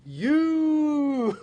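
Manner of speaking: high, loud laughing yell of You; mock bellow. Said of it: "I'll just be like".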